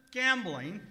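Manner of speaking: loud sharp accusation; accusing. Acted. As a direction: pounce on the word. Suspicious boss accusing valet.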